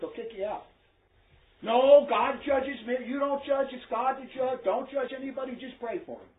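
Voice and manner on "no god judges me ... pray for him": mocking voice. Mocking a charismatic believer.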